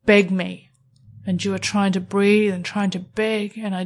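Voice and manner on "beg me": scornful, insistent demand; cold, commanding disbelief; demanding dismissal. Acted. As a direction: reject the begging and demand more. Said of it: "I say".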